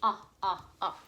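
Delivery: "Ah, ah, ah" short o repeated; short O sound. Shown as a demonstration. Teacher repeats the short o for kids. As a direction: chant short o as "ah". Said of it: "That is the short vowel sound".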